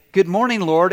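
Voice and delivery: cheerful early riser greeting God. Retold or imitated. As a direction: greet the day gladly. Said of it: "Those who say".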